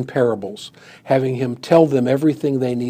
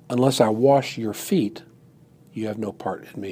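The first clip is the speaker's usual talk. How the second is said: quiet contrast reading; 3 semitones lower, 6 dB quieter than usual. Shown as a demonstration. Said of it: "Notice he doesn't say".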